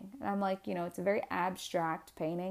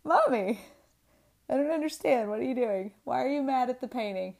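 put-on higher, puzzled little-kid voice; imitating young child; 5 semitones higher, 4 dB louder, faster than usual. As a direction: question Mommy like a bewildered child, starting loud. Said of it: "my four, five-year-old was like".

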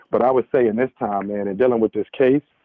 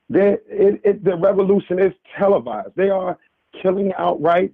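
higher-pitched preaching urgency; 5 semitones higher than usual. Real, not acted. Caller exhorting the family about a corrupt justice system, preaching. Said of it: "I don't wanna preach".

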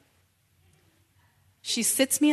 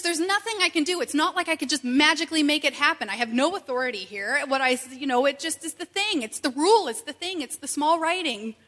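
exasperated clerk; 4 semitones higher, 5 dB louder than usual. Retold or imitated. Clerk protesting he can't help.

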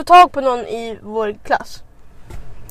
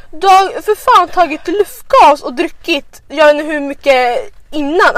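scolding; 3 semitones higher, 4 dB louder, slower than usual. Retold or imitated. Scolding drunk friend.

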